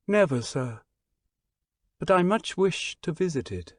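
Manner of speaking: a lightly voiced stranger, sweet and earnest with a hint of foreign accent; the gentle stranger sharing his hopes, a touch foreign. Stranger telling the Englishman his hopes, lightly voiced and earnest.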